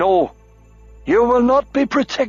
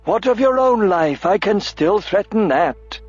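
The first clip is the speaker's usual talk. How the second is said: high, slow sneering threat; mock his defiance; 10 semitones higher than usual. A narrator's reading.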